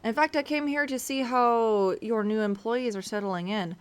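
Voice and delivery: put-on courteous ruler with rough Russian accent; formal thanks in an unsure Russian-like accent; attempted Russian accent. Ruler checking on new employees, amateur Russian accent. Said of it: "doing, like, a Russian accent".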